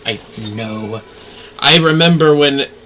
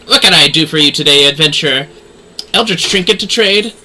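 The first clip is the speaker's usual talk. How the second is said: louder, brisk merchant's voice; voiced merchant; 2 semitones higher, 4 dB louder than usual. Streamer voicing merchant Rowena.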